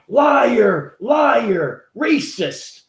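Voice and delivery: high yelled "Liar, liar, racist" from behind; mock shouted accusation. Heckler in the crowd yelling at the interviewer, high mock shout. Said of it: "you hear a voice going".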